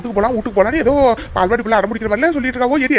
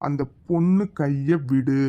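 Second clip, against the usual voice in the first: lower, slow commanding hero voice; stern hero; 8 semitones lower, 3 dB quieter, much slower than usual. Acted. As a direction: order him slowly like a film hero. Hero confronts the thug. (கதாநாயகன் கடுமையான கட்டளை)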